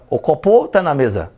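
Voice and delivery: odd tune on "O copo tá na mesa", as if Japanese speaking Portuguese; horribly wrong intonation. Shown as a demonstration. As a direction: misplace the melody of "O copo tá na mesa". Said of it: "Tá tipo o japonês falando português".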